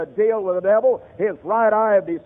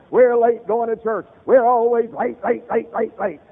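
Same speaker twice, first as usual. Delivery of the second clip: raised, higher, slowed scolding at his wife; angry yell; 4 semitones higher, 4 dB louder than usual. Retold or imitated. Husband yelling at his wife from the car, a higher, louder angry yell. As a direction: bark it out the car window like an impatient husband. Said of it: "he yells at his wife".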